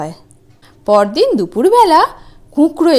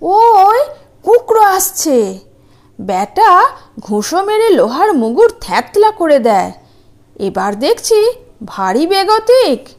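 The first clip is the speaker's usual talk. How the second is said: panicky giant; 5 semitones higher than usual. Acted. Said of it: "ফিঙে আঙুল দিয়ে ... দেখিয়ে বলল".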